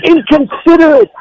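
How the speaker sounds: mock outburst at someone being accused; retold scream. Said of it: "He screams out".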